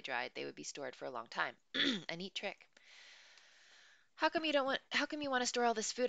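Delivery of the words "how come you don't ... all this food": higher, louder puzzled question; curious question. A narrator's reading. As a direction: ask it with real curiosity. Boy asks curious question.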